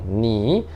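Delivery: "ni" dipping, then rising; third-tone "ni". Shown as a demonstration. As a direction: say "ni" in a Mandarin third tone. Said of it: "Terceiro tom".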